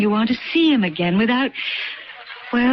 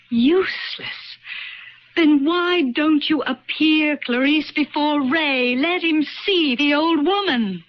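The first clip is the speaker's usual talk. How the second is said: higher, mocking challenge; taunting; 6 semitones higher than usual. Younger self taunting the old woman. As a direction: throw it back at her.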